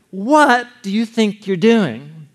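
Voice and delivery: slow, drawn-out rebuke; understated sailor scolding; mock alarmed scold. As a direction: stretch the question out in horror. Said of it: "now they realize".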